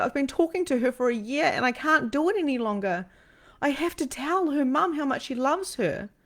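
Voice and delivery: really emotional. Real, not acted. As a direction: confess it with feeling, voice lifted high. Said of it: "so it's really emotional".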